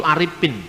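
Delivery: Aripin with P instead of F; Dayak P for F. Shown as a demonstration. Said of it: "Orang Dayak juga begitu".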